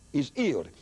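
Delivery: "He's healed" said as 'e's 'ealed, no H sounds; dropped H's. Shown as a demonstration. Preacher showing how Wigglesworth dropped his H's. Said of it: "he didn't pronounce H's".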